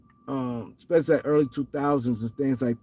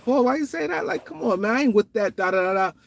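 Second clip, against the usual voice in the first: high, incredulous "why you say that"; mock incredulous protest; 5 semitones higher than usual. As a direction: act baffled and offended, pitched way up. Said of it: "I'm like".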